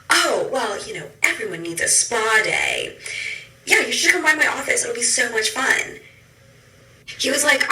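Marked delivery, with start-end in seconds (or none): 0.1-6.0 higher, hammed-up salesy doctor voice; lightly sending up a smooth surgeon's pitch; mock plastic surgeon. Imitating a plastic surgeon inviting her to his office, higher and salesy.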